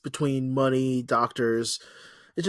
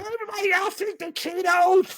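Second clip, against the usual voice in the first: Nathan Explosion line. Retold or imitated. Quoting the cartoon band's singer for friends, cartoon bellow. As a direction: belt it out like the cartoon frontman. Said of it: "Oh, you nailed it".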